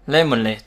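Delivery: "lemonade" with the final syllable stressed; teacher's clear "lemonade", weight on the last syllable. Shown as a demonstration. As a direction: lean on the end of "lemonade". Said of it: "nhấn vào lệch luôn".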